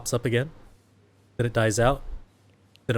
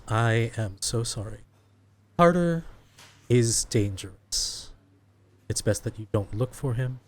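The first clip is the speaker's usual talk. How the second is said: put-on Russian accent. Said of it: "In a Russian accent".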